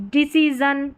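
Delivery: डिसीजन with a voiced z-like last syllable; SION as zhun. Shown as a demonstration. Teacher showing SION readings, voiced z demonstration. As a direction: say डिसीजन as di-si-zun. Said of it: "डिसीजन में एस आई एन को".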